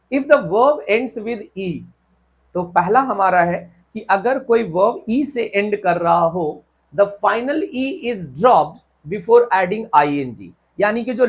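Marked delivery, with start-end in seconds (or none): 0.1-1.7 reading the rule out slowly, word by word; teacher dictating a rule. Shown as a demonstration. 6.9-10.5 reading the rule out slowly, word by word; teacher dictating a rule. Shown as a demonstration.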